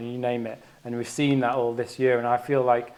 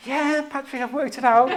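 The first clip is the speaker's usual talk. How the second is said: high, laughing mock confidence; self-mocking breezy reply; overconfident self; 13 semitones higher, 4 dB louder than usual. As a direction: play your past self sure of a wrong sum, giggling. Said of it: "And I was like".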